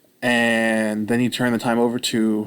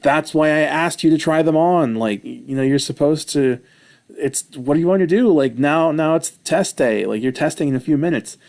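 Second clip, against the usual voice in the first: frustrated coach; 4 semitones higher, 3 dB louder than usual. Retold or imitated. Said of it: "he's kinda getting frustrated with me".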